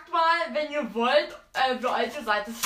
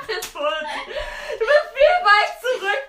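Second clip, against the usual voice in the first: laughing; 5 semitones higher, much slower than usual. Real, not acted. Laughing at Philipp under bed.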